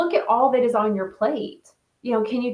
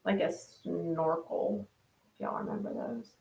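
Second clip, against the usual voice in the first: cartoon character voice; 3 semitones lower, 11 dB quieter than usual. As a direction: play a goofy cartoon character. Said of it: "Sounds also like a cartoon character".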